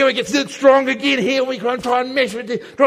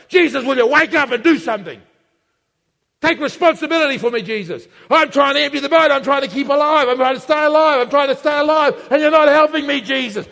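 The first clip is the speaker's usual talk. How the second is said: frantic, raised-voice pleading; urgent, exasperated outcry; desperate plea. Acted. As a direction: plead accusingly as if fighting to stay afloat. Acted panicked plea to Jesus.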